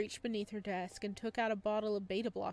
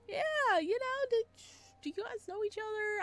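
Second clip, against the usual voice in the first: awkward deflection; 13 semitones higher, 4 dB louder than usual. Acted.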